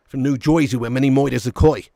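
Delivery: low, thick New Jersey accent. Shown as a demonstration. Showing viewers an American accent, New Jersey style. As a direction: put on a broad New Jersey voice. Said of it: "Can do an American accent".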